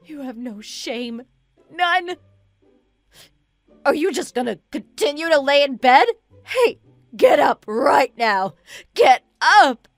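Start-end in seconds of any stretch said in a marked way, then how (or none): 3.8-9.9 shouted orders, building louder; angry screaming. Acted. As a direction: yell to rouse the sleepers. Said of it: "Why are you screaming so loud?".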